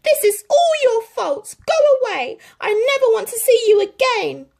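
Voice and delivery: high, loud furious outburst; angry shout. A narrator's reading. Lady sends Tramp away, angry shout. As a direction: drive him away with every word. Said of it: "she shouted".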